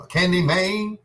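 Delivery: high put-on voice saying Candy Man; silly voice. Teasing his co-host over the movie name, high silly voice.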